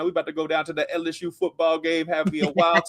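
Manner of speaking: playful Baton Rouge, Louisiana accent. Shown as a demonstration. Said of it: "how the accent's gonna start to pronounce itself".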